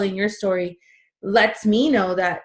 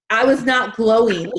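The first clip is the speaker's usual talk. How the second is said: louder, breaking into a laugh; amused emphasis; 2 semitones higher, 6 dB louder than usual. Real, not acted. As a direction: say it loudly on the edge of laughter. Joking about her miserable pregnancy.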